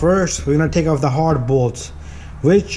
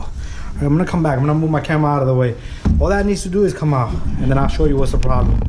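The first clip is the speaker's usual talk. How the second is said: ordinary talk, nothing marked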